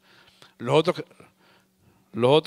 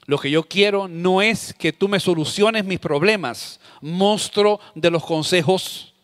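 slow; slower than usual. Retold or imitated. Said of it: "ella me dijo".

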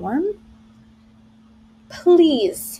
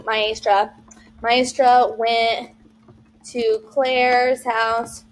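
slow dictation; much slower than usual. Shown as a demonstration. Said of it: "then they're gonna type".

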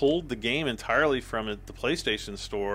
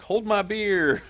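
higher, slow, smug challenge; cocky dare; 9 semitones higher, 3 dB louder, slower than usual. Acted. Year twenty twenty answering the cheers, higher and slow. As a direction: play the year taunting the next one. 2020 personified, daring the new year.

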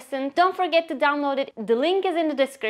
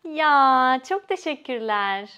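happy thanks; 3 dB louder, slower than usual. Shown as a demonstration. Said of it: "ya indicates that you are full of happiness".

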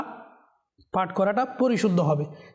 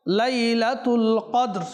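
slow melodic chant with drawn-out vowels; slow Quran recitation; 3 semitones higher, much slower than usual. Shown as a demonstration. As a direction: recite the verse slowly in tajweed. (ধীর সুরেলা তিলাওয়াত)

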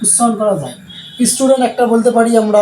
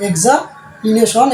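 এক্সামিনেশন slowly, with a break after এক্সা; split into parts; much slower than usual. Shown as a demonstration. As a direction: pause midway through এক্সামিনেশন. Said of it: "চারবার ভেঙে উচ্চারণ করতে পারছি".

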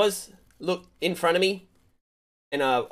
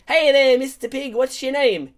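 playful greeting; 7 semitones higher, 4 dB louder than usual. Retold or imitated. Acted greeting to the piglet.

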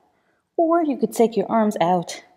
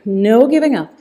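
louder, punched encouragement on "giving"; firm push; 4 dB louder than usual. Shown as a demonstration. Coach urging the class on, louder on "giving". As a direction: lean on "giving" to drive the class. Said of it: "Come on, you can do this".

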